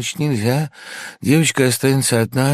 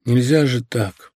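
strained voice; 3 dB quieter than usual. Acted. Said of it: "проговорил сдавленным голосом".

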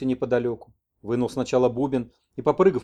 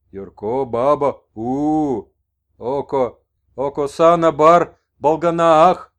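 much louder, slow broken speech; shaman messenger; 2 semitones higher, 9 dB louder, much slower than usual. Acted. Messenger tells the old man about Yurko's woman, loud and slow. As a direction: proclaim it with fervour.

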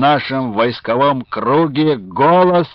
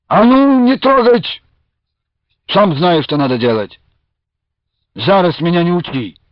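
much higher, loud angry snap; angry outburst; 5 semitones higher, 3 dB louder than usual. A narrator's reading. Luka shaking off the traders, angry shout. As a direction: rip the hand away and snap at them.

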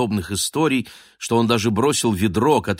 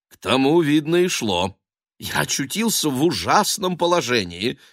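nervous excitement; 5 semitones higher than usual. A narrator's reading. Engineer's continued babble.

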